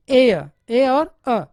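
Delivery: एयर drawn out slowly, ए long and अ short; teacher modelling एयर slowly; slow demo of air. Shown as a demonstration. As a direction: stretch the ए in एयर, keep अ brief. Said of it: "अ को ज़्यादा नहीं खींचना है, ए को लंबा करना है".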